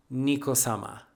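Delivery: low, soft, reverent naming; hushed dramatic reveal. Acted. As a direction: drop the name low and softly. Dramatic answer to own question.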